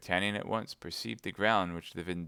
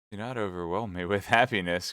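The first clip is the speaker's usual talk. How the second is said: laughing cry; 5 dB louder than usual. Acted. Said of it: "cried D'Artagnan".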